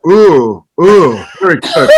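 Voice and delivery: pleased "ooh" in a mock English accent. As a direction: relish the massage with a put-on English accent. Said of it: "But with an English accent".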